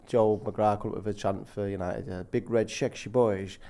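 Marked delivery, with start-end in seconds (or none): 2.3-3.6 low, slow put-on Irish accent. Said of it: "Joe McGrath said that that was an Irish accent".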